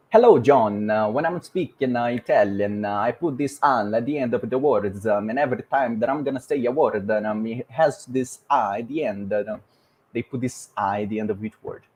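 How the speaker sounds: hammed-up Italian accent, an A on word endings; bouncy mock-Italian English. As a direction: speak lively English like an Italian, vowel-tailed words. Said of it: "But Italians, they put an A".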